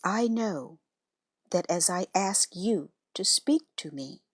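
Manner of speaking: unhurried, reverent guided prayer; meditation prayer. Acted.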